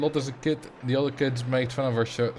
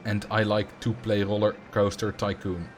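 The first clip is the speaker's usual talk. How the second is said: attempted Dutch accent, pitched lower; 4 semitones lower than usual. Shown as a demonstration. Streamer demonstrating an accent on a sample sentence, Dutch accent. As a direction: try on a put-on Dutch accent. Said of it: "an over-the-top Dutch accent".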